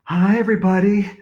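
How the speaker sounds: a hint of pageant queen; lightly voiced beauty queen. A narrator's reading. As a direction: call a hello out to the crowd. Beauty queen greets the crowd.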